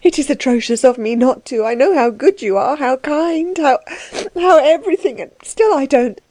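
high, halting, tearful apology; distressed weeping woman, pitched high; sobbing. Acted. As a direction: sob through it in a high, breaking-off voice. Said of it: "she sobbed".

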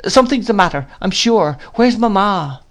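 put-on high-pitched, insistent boy; anxious child. A narrator's reading. Boy demands his mother from nurse, anxious. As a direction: press the worry in a high child's voice.

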